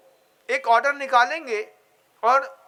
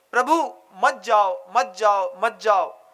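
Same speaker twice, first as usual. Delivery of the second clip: slow, lower, begging plea; pleading; 4 semitones lower, slower than usual. Acted. Bharat begs Rama not to leave. (Bharat Ram से विनती करते हुए, धीमी नीची आवाज़ में गिड़गिड़ाना)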